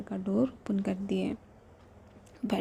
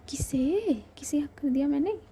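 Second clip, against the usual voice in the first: higher, fast, rising puzzled question; puzzled surprise; 5 semitones higher than usual. Acted. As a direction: act baffled, like you have no idea. Shivi puzzled by accusation. (हैरानी से ऊँची, तेज़ उठती आवाज़ में)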